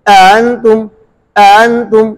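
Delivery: अअंतुम with the second hamza softened toward alif; tas'heel demo. Shown as a demonstration. Teacher models अअंतुम for students, careful recitation. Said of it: "अअंतुम में दूसरे हमजे में तस्हील करेंगे".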